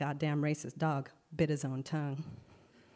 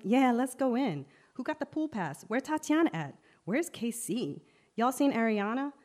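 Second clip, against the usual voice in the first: excited calling out; 7 semitones higher, 3 dB louder than usual. Acted. Kids calling out at the pool.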